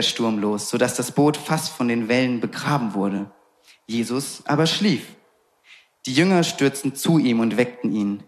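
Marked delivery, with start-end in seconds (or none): none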